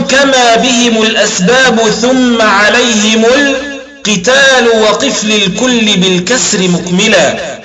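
slow, measured chanting of the poem line; slow didactic verse recitation; reciting the verse. Shown as a demonstration. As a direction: recite the verse like a text being taught. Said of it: "قال الناظم".

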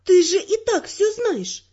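grumbling. A narrator's reading. Heroine to partner who already knows everything, grumbling. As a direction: grumble it slowly, put out at being asked. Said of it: "буркнула я".

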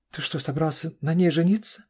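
high, loud disbelief; stunned. A narrator's reading. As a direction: gasp it out stunned. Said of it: "опешила Карина". (ошеломлённо, высоко)

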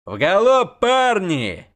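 high loud yell; high whooping yell. A narrator's reading. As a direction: spur the boys on. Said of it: "завопил Ярпин Сигрин".

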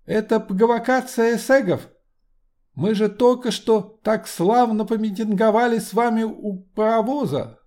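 эсэгов with throaty uvular r, high and indignant; indignant high orator, burring the r; guttural French r. Acted. Lenin protests.

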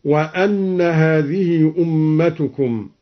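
وأن said "wa-anna" with a; measured reading, وأن opening its hamza on a; fatha on hamza. Shown as a demonstration. Teacher shows al-Duri's variant, وأن pronounced "wa-anna". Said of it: "قرأ الدوري بفتح الهمزة".

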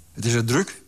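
a touch of alarm in the question; mild startled question. Acted. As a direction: ask it lightly startled. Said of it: "zei Kop, geschrokken".

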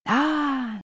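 high drawn-out "aah"; narrated yell. A narrator's reading. Four men flee the monsters, mock yelling. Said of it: "громкий ор четырёх мужиков".

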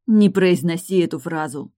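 loud hoarse plea, rasped out; hoarse cry. Acted. Tilda forbidding Morton's apology, hoarse and loud. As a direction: rasp the words loudly at him. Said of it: "прохрипела Тильда".

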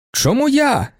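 sharply high indignant cry; high startled yelp. A narrator's reading. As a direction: fling the protest up from the driver's seat. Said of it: "крикнув з високого передка Охоцький".

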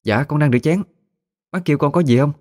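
high-pitched character voice for Mén; Mén answering. A narrator's reading. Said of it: "cũng lên tiếng đáp". (giọng Mén cao hẳn lên khi đáp)

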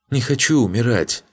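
high, sobbing fake plea. A narrator's reading. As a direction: whimper it like a coward begging for life. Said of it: "всхлипнул Ригарди". (притворный всхлип, высоко)

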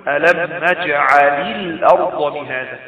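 "نجعل الأرض" linked slowly, lam voweled with i; slow recitation, run "نجعل" into "الأرض" through an i; linking kasra. Shown as a demonstration. Teacher shows students how to ease the reading, linking kasra. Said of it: "نحرك اللام بحركة عشان".

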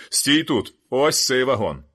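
a rough stranger shouting from outside; hoarse shout. A narrator's reading. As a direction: bark it across the yard, hoarse. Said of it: "пролунав хрипкий голос з надвору".

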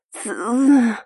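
короткое шипение сквозь зубы, высоко; резко втянуть воздух от боли. A narrator's reading. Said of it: "зашипела я". (шипение от жгучей боли)

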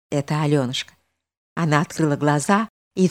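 usual speaking voice

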